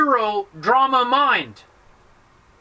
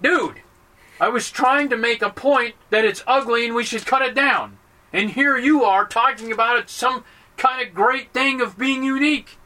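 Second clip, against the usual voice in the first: higher-pitched mock protest; acted exasperation, pitched up; exasperated objector; 3 semitones higher than usual. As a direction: protest like your point was just ruined. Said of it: "And then you say".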